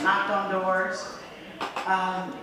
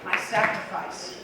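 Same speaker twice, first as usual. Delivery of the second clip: loud triumphant speech to the crowd; shouting acceptance speech; 4 semitones higher, 17 dB louder than usual. Real, not acted. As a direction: belt it out to the hall.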